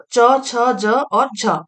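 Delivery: च, छ, ज, झ each said slowly and apart, stretched; slow affricate demo. Shown as a demonstration. Teacher to students, sounding out च छ ज झ slowly. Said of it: "जैसे कि".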